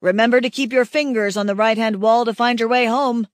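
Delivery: lightly voiced teasing hunter calling out; amused call. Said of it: "Harak calls after me, amused".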